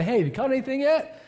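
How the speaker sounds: high, friendly call to a stranger fishing; casual friendly hail, lifted high at the end; friendly greeting. Retold or imitated. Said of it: "I just wanna feel pretty friendly".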